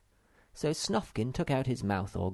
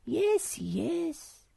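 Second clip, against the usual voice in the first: high, quick impatient brush-off. Acted. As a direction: hurry him along. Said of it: "said his sister impatiently".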